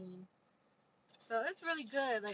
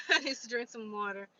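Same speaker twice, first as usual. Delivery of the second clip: louder, laughing through the line; laughing repeat; 7 dB louder than usual. Real, not acted. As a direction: say it again with a laugh.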